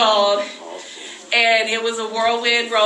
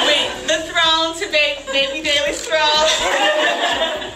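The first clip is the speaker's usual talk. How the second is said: laughing; 3 semitones higher, slower than usual. Real, not acted. Laughing while showing the throne.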